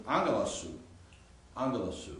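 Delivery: "angelosu" said as one joined word, no gap before "su"; run together as one word. Shown as a demonstration. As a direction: attach "su" straight onto the end of "angelosu". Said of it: "so it goes together".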